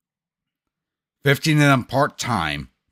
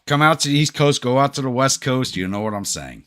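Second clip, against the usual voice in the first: ordinary talk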